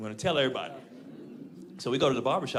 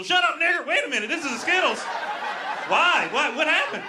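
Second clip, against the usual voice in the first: much higher, loud mocking commenter rant; racist internet commenter; 11 semitones higher, 5 dB louder than usual. Mocking racist internet comments on a Skittles ad, high and loud. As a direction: lampoon an angry online troll. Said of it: "internet just get racist".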